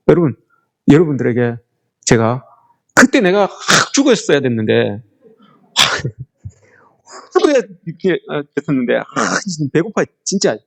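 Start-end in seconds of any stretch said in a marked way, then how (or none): 2.9-10.6 grumbling complaint. Shown as a demonstration. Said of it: "이렇게 여러분들한테 이야기를 하면".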